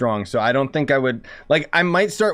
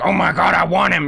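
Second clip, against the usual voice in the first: higher, louder gushing; mock fangirl gush; 5 semitones higher, 4 dB louder than usual. Streamer imagining pulling for Ayato, gushing. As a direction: swoon over him playfully. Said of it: "so cool that I'll be like".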